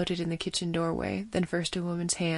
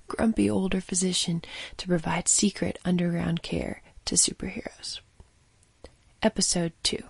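whispered intro. Acted.

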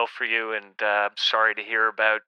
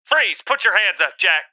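barked police command, higher and louder; cop shout; 8 semitones higher, 6 dB louder than usual. Acted. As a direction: yell it like a cop on a bust. Cop arresting Jack at gunpoint.

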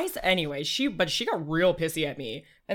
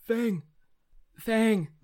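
calling her name; 5 semitones higher, much slower than usual. Acted. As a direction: call out, growing more urgent each time. Calling to a crying friend.

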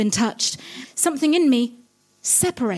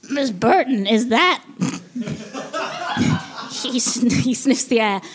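slow Gonzo; slower than usual. Acted. Gonzo sniffs her perfume.

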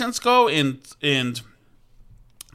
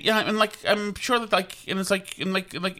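put-on valley girl filler talk; 3 semitones higher, 5 dB quieter than usual. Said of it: "taken to task ... for saying "like".

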